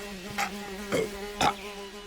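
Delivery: high, quiet gagging cough; disgusted coughing. Acted. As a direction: cough as if sickened by a stench. Husband gags at the stench.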